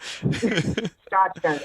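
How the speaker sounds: Scotch guns, Scotch instead of shot. Retold or imitated. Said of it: "as if he was saying Scotch gun".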